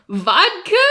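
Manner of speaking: high, laughing, questioning guess; clueless guess. Retold or imitated. Customer guessing what's in a White Russian, clueless. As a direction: blurt it out as a wild guess.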